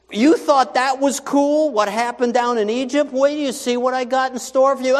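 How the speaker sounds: high, loud, triumphant promise; voice of God. Acted. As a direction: boom it out like a proud deliverer. God answering the grumbling people.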